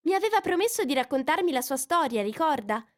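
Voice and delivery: put-on young girl's voice pitched high, eager; a curious girl asking for a story; Alice. A narrator's reading. Curious girl reminding the mouse of his promise, lightly voiced.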